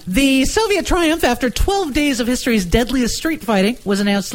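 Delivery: dramatic newsreel read; vintage radio news voice; old newsreel announcer. Acted. Reads old newspaper story.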